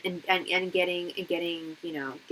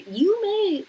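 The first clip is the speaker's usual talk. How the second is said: heated retort; 13 semitones higher, 8 dB louder than usual. Retold or imitated. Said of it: "I even told him".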